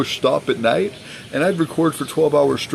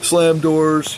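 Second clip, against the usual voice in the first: high, shrill-pitched mock tantrum; imitating his ex raging and throwing things; 6 semitones higher, much slower than usual. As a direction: ham up her screaming fit in a much higher voice. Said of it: "And she's like".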